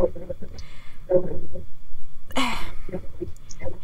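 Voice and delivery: a breath that catches on tears; shaky tearful sigh. Real, not acted. Mother about her estranged son, tearful sigh. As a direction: let out a trembling, near-crying sigh. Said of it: "sorry, I'm getting emotional".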